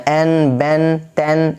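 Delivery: این، بین، تین with a long e sound; wrong majhool vowel. Shown as a demonstration. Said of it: "ایسے نہیں پڑھنا ہے". (غلط مجہول تلفظ: این، بین، تین)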